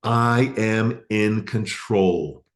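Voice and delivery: slow, firmer affirmation; very slowly and loud. Shown as a demonstration. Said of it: "very slowly and loud".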